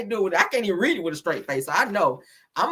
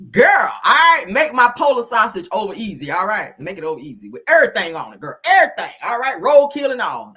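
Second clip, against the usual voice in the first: laughing mock order; 2 semitones higher, 7 dB louder than usual. Shouting an order at Wanda, laughing.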